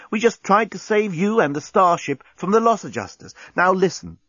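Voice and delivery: high, lilting persuasion; most charming. A narrator's reading. Nettie explaining Earth ways to the captain, charming. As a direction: win them over with charm. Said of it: "in her most charming voice".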